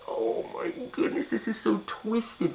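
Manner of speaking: high, slow mock-scandalized; prissy shocked voice. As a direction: clutch your pearls, slowly. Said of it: "And I'm just like".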